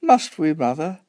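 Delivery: put-on high child's plea, dropping off; reluctant protest. A narrator's reading. Son reluctant to crawl under the table, protesting.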